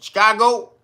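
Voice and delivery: 1 teasing threat. Retold or imitated. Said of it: "They said that".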